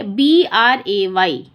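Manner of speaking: each letter drawn out slowly; slow spelling out. Shown as a demonstration. Teacher spelling out a word for children. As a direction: spell it carefully for the kids. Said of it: "ये देखिए".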